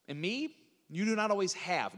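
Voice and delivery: "me" lifted, then "have" stressed at the end. Shown as a demonstration. Preacher showing the repeated verb, stressing "have". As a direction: set "me" apart and land on "have". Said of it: "Notice the emphasis".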